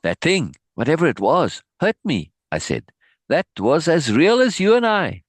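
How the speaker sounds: steady narration read from the page; reading a book aloud. Acted. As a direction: read the passage to the class, lightly voicing the dialogue. Reads book passage aloud.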